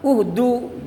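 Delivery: "Uhdu" opening on a clear u; dhammah reading. Shown as a demonstration. Teacher showing the alif taking dhammah, u-initial "Uhdu". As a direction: start "Uhdu" with u, matching the final u. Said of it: "gitu, ya".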